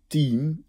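team with a Dutch t and long i; Dutch-style team. Shown as a demonstration. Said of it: "als op zijn Nederlands uitgesproken".

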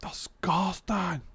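mock disgust. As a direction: sneer "Disgusting" slowly in a put-on voice. Mocking repeat of the word.

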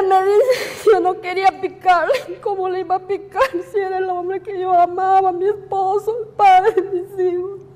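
pleading through sobs, rising to a cry at the end. Real, not acted. Widow telling how she was forced to stab, sobbing.

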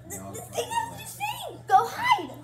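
high giggly laugh through words. Real, not acted. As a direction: laugh as you speak. Laughing while announcing hide and seek.

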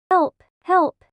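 mock cry for help. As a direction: yelp for help, hammed-up. Calling for help.

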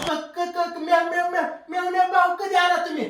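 stammering. Acted. Husband stammering, scared.

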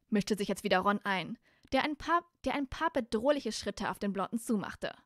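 clearly articulated storybook reading; story narration. A narrator's reading. Reader tells how Hermine turns on Malfoy, story narration. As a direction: narrate the scene evenly and audibly.

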